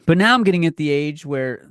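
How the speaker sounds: real yell mid-rant, a touch loud; sudden yell. Real, not acted. Scene: host gets carried away on the podcast, yelling. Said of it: "sorry, I just yelled".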